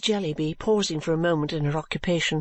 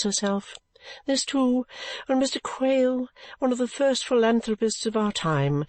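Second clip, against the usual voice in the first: serene. Acted. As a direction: talk as if nothing could trouble you. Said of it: "observed Missus Jellyby serenely".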